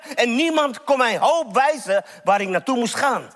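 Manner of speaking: pleading testimony in a preacher's voice; impassioned preaching. Acted. Preacher voices Bartimaeus' thoughts, building.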